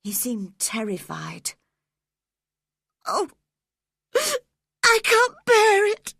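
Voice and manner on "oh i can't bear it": high, loud, sobbing plea; boy sobbing in fear of his father. A narrator's reading. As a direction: cry it out in terror. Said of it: "he sobbed".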